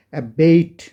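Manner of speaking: অ্যাবেট said slowly and clearly as "ebeit", twice over; repeated pronunciation drill. Shown as a demonstration. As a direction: drill অ্যাবেট as "a-beit" for the class. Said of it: "পাঁচবার তুমি এটা উচ্চারণ করে একটু পড়ো". (অ্যাবেট ধীরে ধীরে বারবার উচ্চারণ)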